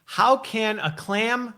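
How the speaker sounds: slow, deliberate tongue twister; every word laid out slowly for the guest; slow careful demo. Shown as a demonstration. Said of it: "this one you don't have to do it five times".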